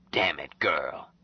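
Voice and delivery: slow, hushed whispered curse; whispered "Damn it"; whispered oath. Acted. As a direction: breathe it under the breath. Jubal's muttered aside.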